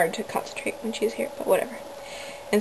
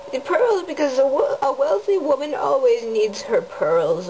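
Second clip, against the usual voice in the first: put-on old grandma voice; 4 semitones higher than usual. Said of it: "I'm being an old grandma now".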